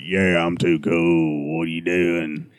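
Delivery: low, slow dumb redneck voice. Pretend. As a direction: drag it out like a dopey hick. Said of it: "just like a dumb redneck".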